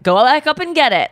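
a touch of snide mockery; mild mock-snotty echo; sarcastic mimicking. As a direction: repeat his order with attitude. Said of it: "there is an attitude in my".

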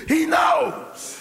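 high shouted answer; preaching shout. Real, not acted. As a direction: ring out the answer.

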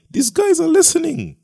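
squeaky high-pitched aside; high voice of God. Acted. Preacher voicing God, high aside.

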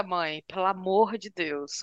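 mock whining daughter. Daughter complains, voiced.

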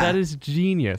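high, amazed voice; impressed. Acted. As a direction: gush with admiration. Awed reaction to clever gimmick.

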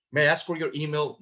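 polite, formal request in a quick rush; stiff, courteous question; asking permission. Shown as a demonstration. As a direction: ask carefully for permission.

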